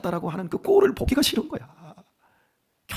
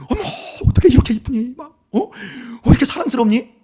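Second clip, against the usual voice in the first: put-on high, gushing baby-admirer voice; cooing over a baby; 5 semitones higher than usual. Preacher acting out hugging little Hayoung, cooing adoringly. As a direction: coo in a raised voice, as if holding a baby.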